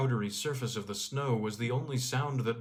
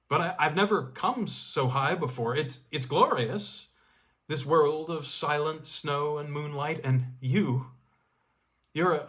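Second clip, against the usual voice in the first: breathless, louder, awestruck rush; enraptured; 3 semitones higher, 4 dB louder than usual. Acted. Man on the slope gushes to the snow girl, enraptured. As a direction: gush to her like a man bewitched.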